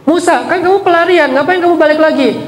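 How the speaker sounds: a touch of mocking arrogance; arrogant Pharaoh. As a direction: look down on him as the proud king. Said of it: "Fir'aun sombong".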